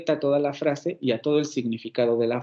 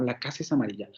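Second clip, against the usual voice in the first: hushed "La casa es amarilla"; soft demo whisper; 3 semitones lower, 6 dB quieter, faster than usual. Shown as a demonstration. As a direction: say it softly, almost whispered.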